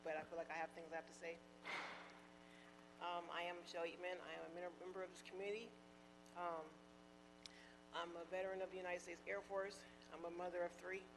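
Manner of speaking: nervous, short of breath; hyperventilating, catching her breath between phrases. Real, not acted. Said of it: "I'm slightly, um, hyperventilating".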